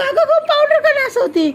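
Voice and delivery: high, laughing exclamation; teasing laugh, high and loud; laughing scold. Real, not acted. Grandma catches girl wasting powder.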